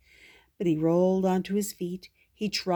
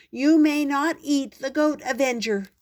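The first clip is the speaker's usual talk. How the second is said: higher, louder stern order; firm command; 7 semitones higher, 5 dB louder than usual. Acted. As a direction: forbid it firmly. Princess orders the giant.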